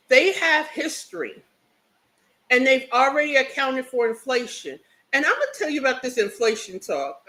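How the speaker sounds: talking while eating; words around a mouthful; chewing noisily. Real, not acted. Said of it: "I'm sorry I'm eating too".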